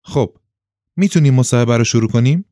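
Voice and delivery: chirpy professional invitation; good-humoured. A narrator's reading. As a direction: ask brightly, in good spirits. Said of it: "با خلق خوش ادامه داد".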